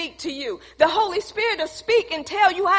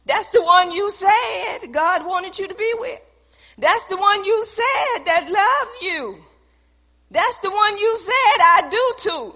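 building preaching; 4 semitones higher, 3 dB louder than usual. Acted. Preacher challenging wives about husbands, higher and louder. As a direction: press it home to the wives.

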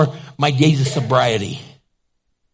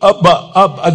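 flustered stammer; 4 dB louder than usual. Retold or imitated. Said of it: "she goes".

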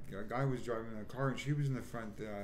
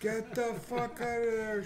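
high, loud, slow imitated yell of a furious woman; furious shout; 12 semitones higher, 6 dB louder, slower than usual. Imitating the woman ordering him out, a high furious yell. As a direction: shriek it like she's throwing him out. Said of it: "She fucking freaked".

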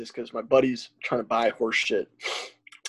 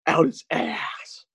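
silly slow voice; 8 semitones higher, much slower than usual. Pretend. Silly rainbow unicorn riff.

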